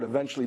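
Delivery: EVENTUALLY repeated with deliberate weight; emphasis on EVENTUALLY. Real, not acted. Guest repeats his caveat to the anchor, emphasis on EVENTUALLY. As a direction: underline the word EVENTUALLY as a caveat. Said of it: "I wanna emphasize that word".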